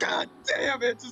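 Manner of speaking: play-acted, very high-pitched anguished emotional scream. Retelling a character's reaction to a voicemail: imitating an emotional scream. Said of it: "Just a genuine emotional scream".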